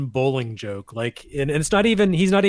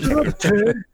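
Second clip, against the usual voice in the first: higher-pitched imitation of a yell; mock yell; 7 semitones higher, slower than usual. Co-host repeating the movie's stair gag, mock yell. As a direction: echo the movie line as a mock shout. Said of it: "it's just yelling".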